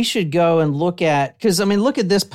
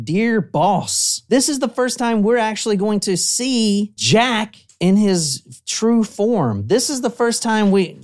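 dramatic letter reading; 6 semitones higher than usual. Acted. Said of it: "it starts by saying".

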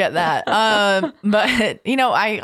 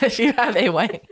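laughing; 5 semitones higher than usual. Real, not acted. Laughing echo of wife question.

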